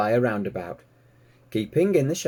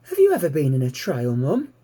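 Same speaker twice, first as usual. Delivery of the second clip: very high, louder little pig voice; eager piglet; 4 semitones higher, 4 dB louder than usual. Acted. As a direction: squeak it out like a curious piglet. Piglet Babe asks.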